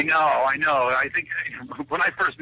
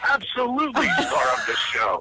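mock shout; 7 semitones higher than usual. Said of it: "mock tribute shout".

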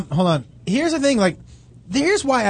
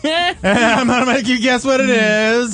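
mock drug dealer; 3 semitones higher, slower than usual. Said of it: "you would be the worst drug dealer".

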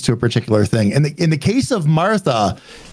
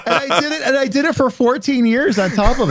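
high, put-on Martha voice; pitched-up character voice; 10 semitones higher than usual. Back in Martha voice.

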